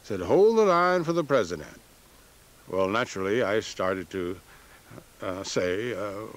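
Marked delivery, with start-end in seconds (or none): 0.2-1.8 high operator's voice; imitating the secretary, pitched high; Southern female voice. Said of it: "Southern female voice said".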